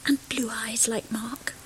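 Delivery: adoring whisper. Acted. Family whispering over the baby.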